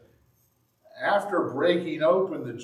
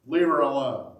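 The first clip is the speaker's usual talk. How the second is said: firm command; 6 dB louder than usual. Acted. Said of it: "But Jesus said".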